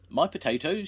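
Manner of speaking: high loud demand; shout. A narrator's reading. Mister Davis shouting for potatoes, high loud. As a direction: call out impatiently. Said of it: "shouted Mister Davis".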